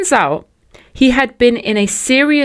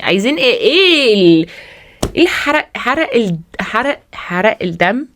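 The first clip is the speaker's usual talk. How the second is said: mock rant; 4 semitones higher, much faster than usual.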